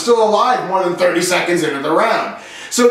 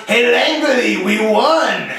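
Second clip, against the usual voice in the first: put-on French Canadian accent; 2 semitones higher, slower than usual. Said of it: "he was French, he was from Quebec".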